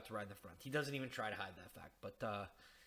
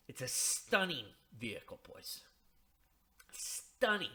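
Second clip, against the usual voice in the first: pompous android; 4 dB louder than usual. Pretend. Mock pompous android boast.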